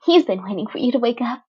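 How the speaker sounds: put-on gleeful teen villain chirping at the wounded boy; bubbly villain girl Toga. Toga grinning.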